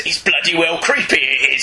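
a light Cockney Yoda voice; hint of a wise little Cockney sage. Constantine mocked as a Cockney Yoda. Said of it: "like a Cockney Yoda".

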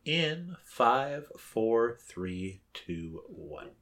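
countdown fading away. Real, not acted. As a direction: let the count fade out. Countdown to resume film.

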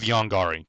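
Yongari with a full open "gar" in the middle; chosen pronunciation. Shown as a demonstration. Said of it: "I think that sounds better".

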